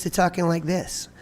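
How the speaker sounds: smaller sound at the front of the mouth; tongue pushed behind the teeth; voice pushed forward. Shown as a demonstration. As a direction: talk from the front of the mouth, not the throat. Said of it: "push everything to the front of my mouth".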